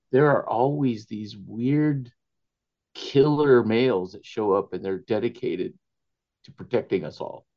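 normal talking voice

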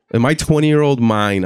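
ordinary talk, nothing marked

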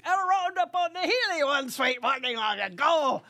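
high, loud bellowed verse across the prairie; bellowing. Shown as a demonstration. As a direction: bellow it out to move the cattle. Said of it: "doing things like bellowing".

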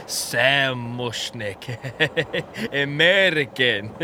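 delighted laugh through the name. Acted. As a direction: laugh as he savours the new name. Laughing at his dream name.

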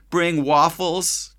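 high, very slow tearful plea; crying child. A narrator's reading. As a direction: drag the words out through sobs. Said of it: "she cried".

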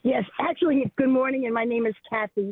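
natural New York accent. Real, not acted. Caller correcting her name on air, New York accent. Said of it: "I have a New York accent".

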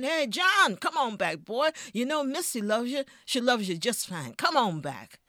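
loud, high calling across the road; owner shouting. Acted. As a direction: yell after him to come back. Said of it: "yelled at him again".

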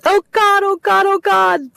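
high, loud, panicked sobbing cries; hysterical sobbing. Acted. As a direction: break down in hysterics on the phone. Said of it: "Sobbing, hysterical".

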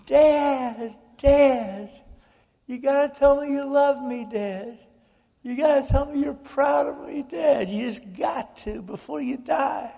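high, desperate pleading yell; retold screaming. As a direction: scream it at a dying father, begging.

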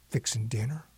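whispered answer; hushed realization. A narrator's reading. Child realizing grandma is in the kitchen, whispered.

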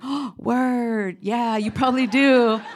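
mild stoner drawl, unbothered. Retold or imitated. Stoner supervisor voiced in story.

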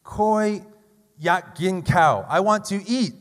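Koi said high and loud with proper tone, slow; corrected tones. Shown as a demonstration. Teacher correcting himself for his students, careful tones. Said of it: "the tones are really important".

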